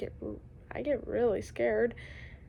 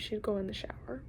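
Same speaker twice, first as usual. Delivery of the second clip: hushed telling; 7 dB quieter than usual. Real, not acted. Sister crying over dead pet.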